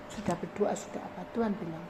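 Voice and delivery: ordinary delivery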